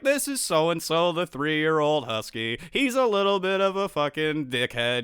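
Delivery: slow, lilting presenter voice; lightly put-on pet-video narration; narrating dog groomer. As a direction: imitate a groomer introducing a dog. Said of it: "like, narrates it".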